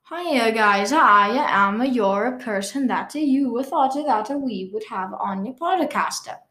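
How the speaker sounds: lilting, slow mock-Italian accent. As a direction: put on a hammy Italian accent. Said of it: "trying to imitate an Italian accent".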